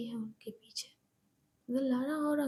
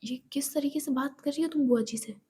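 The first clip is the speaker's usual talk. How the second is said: loud, firm reproach; stern rebuke; 5 dB louder than usual. Acted. Ayesha rebukes Monika for insulting the aunt, stern. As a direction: call her out firmly. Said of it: "और कहती है".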